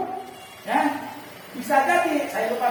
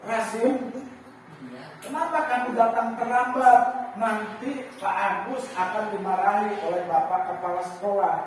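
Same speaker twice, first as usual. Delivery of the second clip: gentle guilt-tripping teacher. Shown as a demonstration. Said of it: "nadanya lembut".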